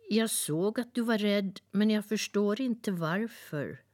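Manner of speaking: proud little songbird boasting kindly; cheerful nightingale. Acted. Nightingale speaks.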